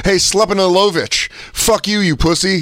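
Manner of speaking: courtside heckler. Acted. Rich fan taunting an Eastern European player, mild mock heckle. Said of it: "They're like".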